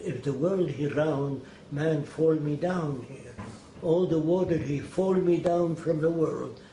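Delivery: slow, imitated Arabic accent in broken English; a slow, earnest Elbaz in Arabic-accented English. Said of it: "I know his dialect".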